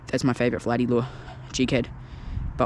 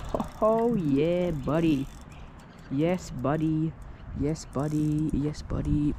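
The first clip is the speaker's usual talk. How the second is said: excited cheering; 3 semitones higher, 4 dB quieter, much slower than usual. Real, not acted. Angler cheering a big flathead taking the lure, excited. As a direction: cheer the fish on, buzzing.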